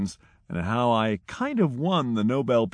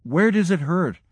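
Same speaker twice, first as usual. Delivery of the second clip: higher, louder urgent question; doctor shouting at the injured pilot; retold shout; 6 semitones higher, 4 dB louder than usual. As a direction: shout it at the patient. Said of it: "To the patient I shouted".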